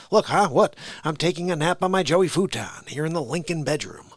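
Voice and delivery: startled napping politician, lightly voiced; confused folksy president impression; Joe Biden. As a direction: blurt it like you were just woken. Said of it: "a good Joe Biden impression".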